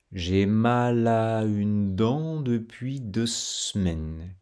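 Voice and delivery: slow, even syllables, every one linked; j'ai mal à une dent said very slowly with linked syllables. Shown as a demonstration. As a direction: spell out each syllable slowly. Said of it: "rythme régulier".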